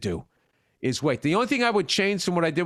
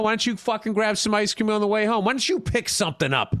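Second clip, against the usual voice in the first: lightly voiced wife, higher; mock wife requests; 4 semitones higher than usual. Mimicking his wife's errand asks, a touch higher. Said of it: "You know what I say".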